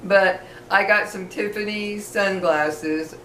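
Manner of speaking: gums only, no front teeth; missing front teeth. Real, not acted. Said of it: "it's hard to say an F".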